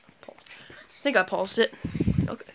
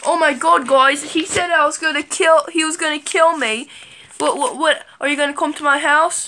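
loud, raised mock panic; acting scared; 4 semitones higher, 5 dB louder than usual. Vlogger telling viewers Chucky threatened them, fake panic. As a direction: gasp it out in exaggerated alarm. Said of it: "act like I'm really scared".

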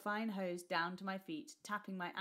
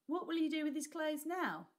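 higher, louder anxious question; anxious call; 10 semitones higher, 5 dB louder than usual. Acted. Boy asking grandmother about the clothes, anxious. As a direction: call out worried. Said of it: "Nick called anxiously".

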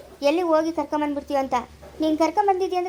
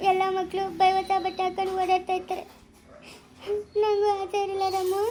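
tearful; 2 semitones higher than usual. Acted. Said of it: "ಅಳ್ಬೇಡ, ಸುಮ್ಮನೆ ರಮ್ಮ ನೀನು".

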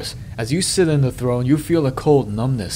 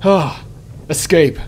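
real relief; 3 semitones higher than usual. Real, not acted. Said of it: "sixty percent chance".

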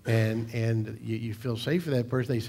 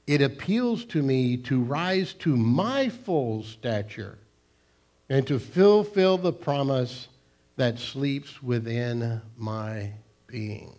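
slow, weighty recitation of an inspiring quote; solemn quote reading; slower than usual. Acted. Pastor reading an uplifting quote to the congregation, slow and solemn. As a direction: let each phrase land slowly, like scripture. Reads a quote aloud slowly.

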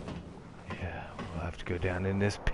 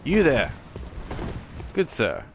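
Edgar Allan Poe voice; 7 semitones higher than usual. Acted. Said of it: "at playing him and being him".

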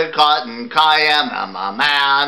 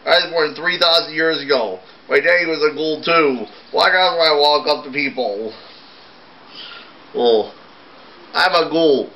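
a ghoul's lament, pitched higher; a sad little ghoul, sung-spoken and higher; lightly voiced ghoul; 4 semitones higher than usual. Ghoul telling everyone he scares people, lightly voiced and higher.

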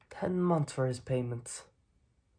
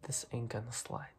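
quiet threat; 2 semitones lower, 7 dB quieter than usual. Acted. Mob boss sending Ray a warning, quiet threat. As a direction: let the menace sit.

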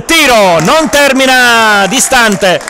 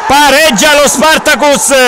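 breathless italian goal commentary; 6 semitones higher than usual. Real, not acted. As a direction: erupt into the goal call. Equaliser goal call.

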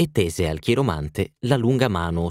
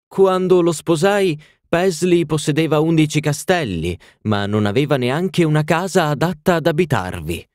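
put-on much higher, louder grand old lady; haughty duchess; 8 semitones higher, 3 dB louder than usual. A narrator's reading. Duchess telling the party of her castles, lofty and high.

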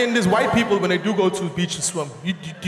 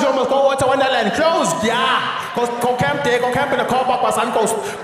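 territorial beachgoer; 3 semitones higher, 4 dB louder than usual. Acted. Local defending beach spot, quarrel.

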